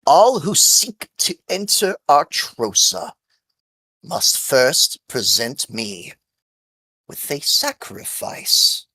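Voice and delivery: lightly voiced ancient tree spirit; ringing tree voice. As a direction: call it out like an old tree guardian. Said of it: "she rings out".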